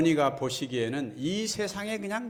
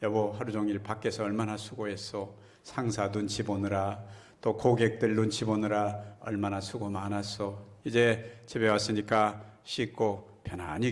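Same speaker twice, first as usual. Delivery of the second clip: 다정한 아내 흉내; 3 semitones lower than usual. Retold or imitated. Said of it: "집에 있는 아내라면".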